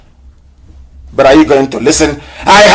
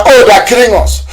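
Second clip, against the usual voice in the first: mock wail; 6 semitones higher than usual. Mocking quoted complaint.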